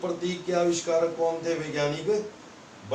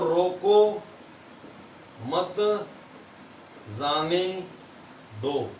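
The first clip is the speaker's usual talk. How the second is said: "रोको, मत, जाने, दो" with a long pause after every word; word-by-word reading; slower than usual. Shown as a demonstration. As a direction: read "रोको मत जाने दो" one separated word at a time. Teacher reads out an example sentence. ("रोको मत जाने दो" एक-एक शब्द रुककर बोलें)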